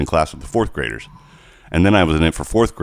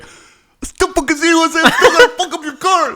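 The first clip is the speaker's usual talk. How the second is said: mock menacing threat; 4 dB louder than usual. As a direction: drag it out like a gloating thug. Neighbor watching him move car.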